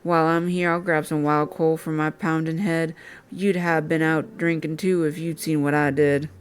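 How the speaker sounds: put-on a light country accent for the game character. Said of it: "I'm giving him that accent".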